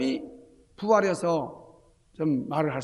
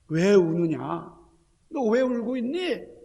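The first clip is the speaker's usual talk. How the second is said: slow, tender questioning; Jesus asking gently; 4 semitones higher, slower than usual. Acted. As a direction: lean in and ask the weeping one slowly. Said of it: "주님께서 이렇게 말씀하시죠". (우는 이에게 묻는 주님의 느리고 다정한 음성)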